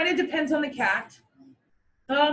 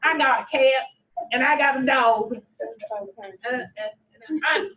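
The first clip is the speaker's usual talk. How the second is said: stupid owner voice. Retold or imitated. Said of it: "this voice for my random stupid owner".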